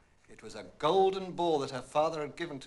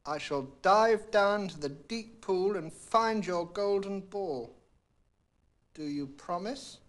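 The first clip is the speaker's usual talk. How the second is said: higher, louder, slow frog voice; earnest frog; 5 semitones higher, 4 dB louder, slower than usual. A narrator's reading. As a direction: press her for a promise. Frog demands a promise.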